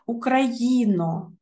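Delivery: «Україно» said slowly, with a clear, full unstressed O at the end; clear final O. Shown as a demonstration. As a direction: draw out «Україно» and keep its final O round. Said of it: "О не наголошений".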